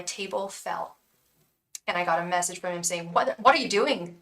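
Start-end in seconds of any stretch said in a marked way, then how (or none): 3.1-4.2 a hammed-up, deliberately terrible Irish accent, louder; mock Irish brogue, badly done. Spirit's message to her, in a terrible Irish accent. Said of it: "the worst Irish accent".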